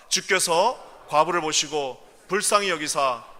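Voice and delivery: loud, slow scripture reading; declaimed scripture. Acted. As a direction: proclaim the verse. Reading scripture aloud forcefully.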